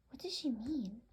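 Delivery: whisper. Acted. Bird wondering aloud.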